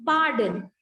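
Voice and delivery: "pardon" said slowly with no R before the D; slow "pardon", R left silent. Shown as a demonstration. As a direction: model "pardon" as "pah-din". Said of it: "it is also silent when".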